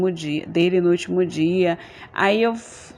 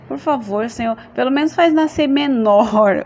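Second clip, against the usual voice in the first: a mildly whining plea, pitched up; pleading prayer; 4 semitones higher, 4 dB louder than usual. Retold or imitated. Woman begging God for a small favour, pleading. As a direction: beg the Lord, drawing out the last word. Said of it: "orando assim".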